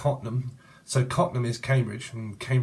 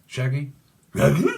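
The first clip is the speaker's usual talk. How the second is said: louder, higher rising question; playful high call; 4 semitones higher, 7 dB louder than usual. Pretend. Playing on the name Shaggy, loud and high. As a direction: toss the name up loudly.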